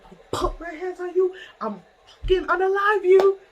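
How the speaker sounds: high-pitched, heated threat; retold threat. Storyteller replaying her threat to Lotion, heated and high.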